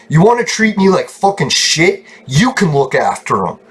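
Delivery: imagined angry comeback, starting high; indignant, challenging comeback; indignant retort. Retold or imitated. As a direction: throw it back at them, pitch dropping.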